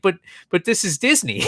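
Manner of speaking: mock innocent disbelief; surprised protest. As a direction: imitate a guest who can't believe it. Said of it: "just as surprised as mine".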